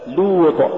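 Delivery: لوط with light L and pure long u. Shown as a demonstration. Tajweed teacher giving the form to say, light long u. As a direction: keep لوط as a clean loot. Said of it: "الصواب".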